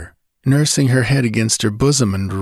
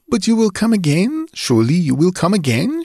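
much higher, rising, desperate plea; pleading Julie; 10 semitones higher than usual. Acted. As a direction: beg him to come back. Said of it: "she pleaded".

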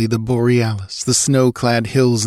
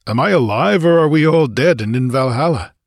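higher-pitched, amazed question; bewildered questioning; 6 semitones higher, 4 dB louder than usual. A narrator's reading. Revived Cimmerian asks comrade if all are dead, bewildered. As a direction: ask it as if barely believing.

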